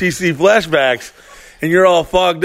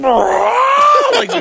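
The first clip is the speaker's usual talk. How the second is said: laughing. Real, not acted. Laughing at Hulk moment.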